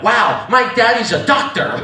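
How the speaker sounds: slow, mock-proud wonder; a touch of childlike awe, drawn out; proud little kid. Child watches father with needle, mock proud. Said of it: "at first I was proud".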